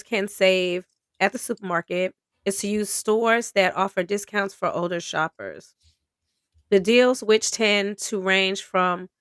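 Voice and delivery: steady reading-aloud voice; article read-aloud. Acted. Host reading a grocery discount article, steady read. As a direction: read the piece out as written.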